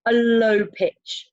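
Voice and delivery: LOW stretched out on a level low note; slow, held LOW; low pitch. Shown as a demonstration. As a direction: draw out LOW to show the pitch. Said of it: "I'm gonna use a low".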